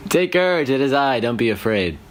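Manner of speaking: lightly voiced Jesus, high on courage; a hint of a gentle reassuring Jesus; quoting Jesus. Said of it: "quote unquote".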